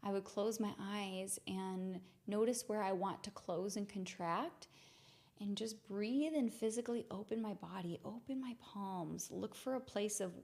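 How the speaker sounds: soft, meditative guidance; hushed, settled voice with pauses between phrases; guided reflection. Real, not acted. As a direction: gently lead listeners inward to acceptance. Walks through the practice.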